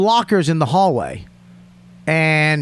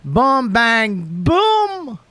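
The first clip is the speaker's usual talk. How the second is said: excited; 6 semitones higher, much slower than usual. Retold or imitated. Hyped list announcement.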